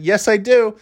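high-pitched retold call; imitated yelling. Son answering mom across the front yard, high mock yell. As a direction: call back high, without real volume. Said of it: "yelling this to her from across".

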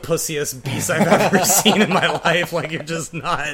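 scoffing put-down with a laugh; mocking, laughing. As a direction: laugh at him while insulting. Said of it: "I was like".

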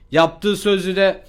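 Yaptığı sözü de said slowly and deliberately. Shown as a demonstration. Rereading the chat line slowly for viewers. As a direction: drag out Yaptığı sözü de word by word. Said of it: "repeats the phrase more slowly".

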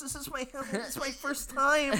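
high, loud bashful voice; mock nervous. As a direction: play the shy first-timer. Acting the poisoned hugger's excuse.

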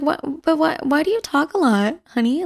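gently mock the chatty daughter as mom; imitating mom. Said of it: "she's like".

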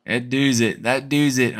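Kentucky twang on "doos it", rhymes with "choose"; Kentucky accent. Shown as a demonstration. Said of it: "channel in my inner Kentucky accent".

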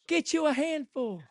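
ordinary talk

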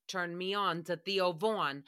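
imitating David. Mocking co-host David's phrase, slow low imitation. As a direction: drag it out like the guy who said it. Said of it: "that's literally what David said".

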